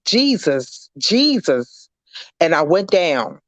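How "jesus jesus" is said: higher, pleading call, each Jesus falling; mild retold cry, calling on Jesus. Shot woman falling down, retold crying out to Jesus. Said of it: "cried out, I said".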